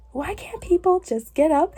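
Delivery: hammed-up exasperated demand; mock aggressive. Showing how she isn't saying it, mock aggressive. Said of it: "an aggressive and just".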